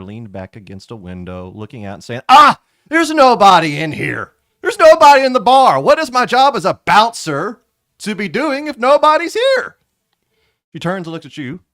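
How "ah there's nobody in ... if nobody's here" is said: Olga's bored bouncer voice. Acted. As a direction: moan it like a lazy bouncer. GM voices sleepy bouncer Olga.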